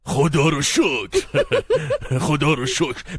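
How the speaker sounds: slow thankful words around a laugh; relieved laugh. Acted. Father relieved at good news.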